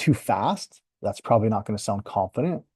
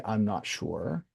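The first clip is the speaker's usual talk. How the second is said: unsure, trailing off; 7 dB quieter, much slower than usual. Shown as a demonstration. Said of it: "You can say".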